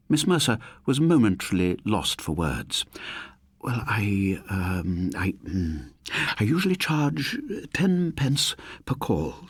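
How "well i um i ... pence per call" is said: stammered. Acted. Landlady, lost for words, stammers out her phone fee. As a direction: caught off guard and stalling. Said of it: "she finally stammered".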